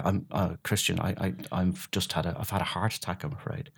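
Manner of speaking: soft, faltering patient voice; quiet, halting voice of a recovering therapist; weak after heart attack. Retold or imitated. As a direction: sound frail from a hospital bed. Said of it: "and he said".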